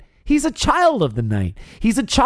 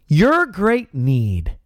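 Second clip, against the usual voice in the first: drawn-out, low «dead black heart»; slow and solemn; 3 semitones lower, slower than usual. Acted. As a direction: stretch every word, sinking low at the end. Preacher drives home the point.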